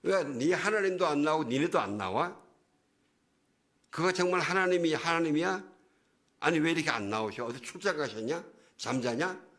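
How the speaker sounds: mocking, needling questions; Goliath. Goliath ridicules Israel's God for not showing up, mock taunting. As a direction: imitate a bully teasing, loud at first then easing off. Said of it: "이러고 놀려대는 거예요".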